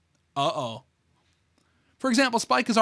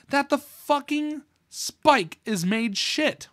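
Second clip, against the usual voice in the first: slow, higher goofy character voice; silly Spike voice; 7 semitones higher, much slower than usual. Acted. Spike writes to Princess Celestia, slow goofy higher voice. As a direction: drag out the garbled letter in a dopey voice.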